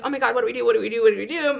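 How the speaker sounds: mildly panicked repeated question; a touch of retold panic; freaking-out mom. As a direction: imitate a mother fretting on a loop. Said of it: "freaking out".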